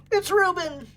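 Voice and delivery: excited announcement. Real, not acted. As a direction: call out the dog's name with delight. Repeating the dog's name.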